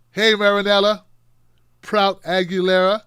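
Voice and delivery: loud, bright call to Marinella Prout Aguilera; excited shout-out. Real, not acted. Host greeting a fan's five-year-old, loud and cheerful.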